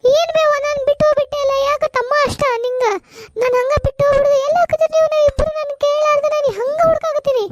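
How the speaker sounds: put-on high, tearful child's whimper; crying child. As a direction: cry while searching for mother. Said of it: "ಅಳ್ಬ್ಯಾಡ ಬೇ". (ಅಳುತ್ತಿರುವ ಮಗು)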